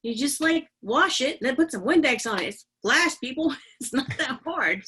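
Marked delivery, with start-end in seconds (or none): 2.5-4.8 it's glass, come on; exasperated. Real, not acted. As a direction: spell it out like it's obvious. Exasperated at silly question.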